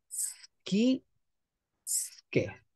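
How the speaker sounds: schi and sche with a hard k sound; hard sk demo. Shown as a demonstration. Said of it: "la C e la H".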